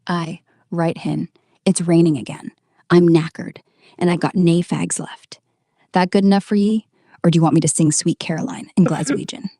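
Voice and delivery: put-on Glaswegian, punchy and weary; Glasgow accent. Shown as a demonstration. AI obliges host's request for Glasgow, Glaswegian accent. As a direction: lay on a broad Glasgow accent. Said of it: "do a Glasgow accent then".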